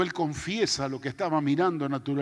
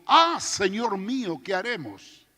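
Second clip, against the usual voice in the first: desperate cry; 3 semitones higher, 3 dB louder than usual. Retold or imitated. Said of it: "exclamó en un grito como desesperante".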